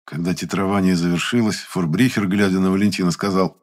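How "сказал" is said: plain reading voice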